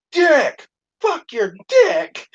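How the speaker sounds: high mimicked cursing outburst; Tourette's guy. Tourette's guy cursing at the janitor, high mock outburst. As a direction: punch out the mock curse, then stretch it. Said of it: "Tourette's guy goes".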